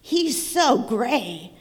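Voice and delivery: slow, drawn-out horse voice. Acted. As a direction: stretch it out like a sleepy horse. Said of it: "neighed a horse".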